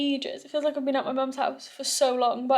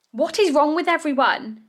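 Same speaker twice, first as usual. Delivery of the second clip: exasperated; 4 semitones higher than usual. Real, not acted. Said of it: "I'm actually fuming".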